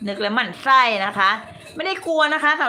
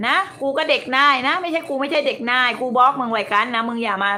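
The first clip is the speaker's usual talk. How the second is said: angry tirade. Real, not acted. To a critic who screenshotted her, a furious swearing rant.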